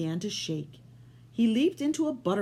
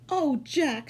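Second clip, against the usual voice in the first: much higher delighted voice; mother happy; 9 semitones higher, 4 dB louder than usual. Acted. Mother greeting Jack happily, higher. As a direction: sound overjoyed. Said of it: "she said happily".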